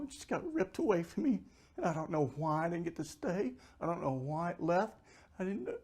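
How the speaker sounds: high, pleading voice of grief; anguished loss. Retold or imitated. Retelling his grief at losing light.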